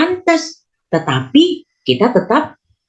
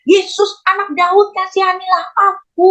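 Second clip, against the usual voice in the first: crying out; 10 semitones higher than usual. Acted. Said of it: "dia teriak".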